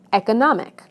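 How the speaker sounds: eco-NOM-ic, weight on NOM; stress before the suffix. Shown as a demonstration. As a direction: punch NOM in economic. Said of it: "stress moves right to the syllable".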